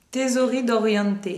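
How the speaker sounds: "Tesori d'Oriente" read slowly in a playful Italian accent; slow, careful Italian accent on "Tesori d'Oriente"; mock Italian accent. Shown as a demonstration. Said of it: "Vous pouvez voir mon, mon accent".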